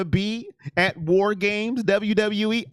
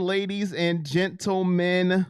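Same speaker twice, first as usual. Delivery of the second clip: drawn out; slower than usual. Shown as a demonstration.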